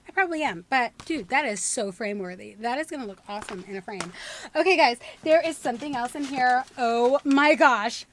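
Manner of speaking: usual speaking voice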